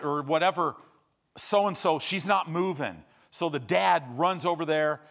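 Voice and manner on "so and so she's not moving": raised-pitch urgent report, acted; imitated urgent alert. Little kids telling dad about the girl, urgent alert. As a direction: alert a parent, lightly imitating a child.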